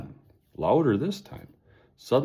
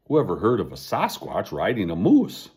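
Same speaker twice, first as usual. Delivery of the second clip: snapping; 4 dB louder than usual. Acted. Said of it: "Hugo snapped".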